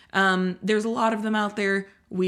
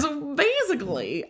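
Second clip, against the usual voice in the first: put-on Valley girl; 6 semitones higher than usual. Shown as a demonstration. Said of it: "I don't know why I said that like a Valley girl".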